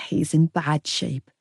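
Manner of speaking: low, slow and somber; a touch of sorrow; grave. A narrator's reading. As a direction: say it heavily, breaking bad news. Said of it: "She shook her head sadly".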